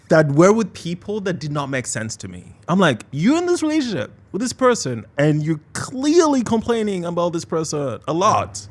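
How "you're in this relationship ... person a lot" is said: incredulous. Retold or imitated. Retold baffled question to friends.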